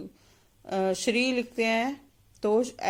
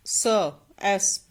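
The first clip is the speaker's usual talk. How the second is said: slow sound-out; much slower than usual. Shown as a demonstration. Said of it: "इस तरह से हम एस पढ़ेंगे".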